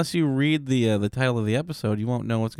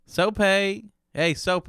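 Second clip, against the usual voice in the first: high sing-song greeting, much higher; playful call; 9 semitones higher, much slower than usual. Pretend. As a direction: sing the nickname high and teasing. Calling a new nickname.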